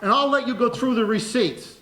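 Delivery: loud, excited public challenge. Real, not acted. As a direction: dare them forcefully in front of everyone. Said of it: "raised his voice and was talking loudly".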